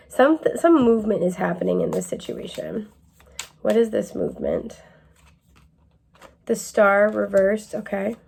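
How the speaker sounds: calm it down like a tarot therapist. Acted. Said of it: "I'm using my tarot therapist voice".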